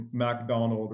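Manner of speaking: MacDonald in a French accent, first syllable a full "Mac". Shown as a demonstration. Showing how the accent came out on hard words, French accent. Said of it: "my accent would come out".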